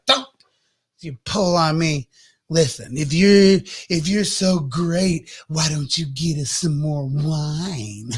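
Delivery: slow, slurred challenge; drunk mom taunting. Acted. Tipsy Mary taunting her son, slow and slurred. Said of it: "She's like".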